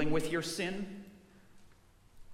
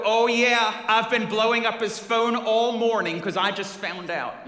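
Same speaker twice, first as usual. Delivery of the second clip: angry shout; 6 semitones higher, 7 dB louder than usual. Retold or imitated. Enraged husband at Lowe's.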